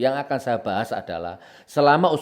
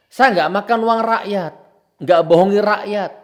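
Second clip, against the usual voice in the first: loud, high, emphatic denial; fiery raised-voice insistence; heated self-defence; 9 semitones higher, 8 dB louder than usual. Real, not acted. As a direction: declare your innocence at full voice. Heated self-defence against officials.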